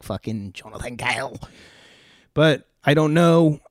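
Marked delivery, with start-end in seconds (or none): 0.0-1.4 jokey mock Cockney accent on "Fucking Jonathan Cahill". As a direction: toss the name off like an exaggerated Cockney bloke. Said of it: "put some stinky Cockney on the end of that".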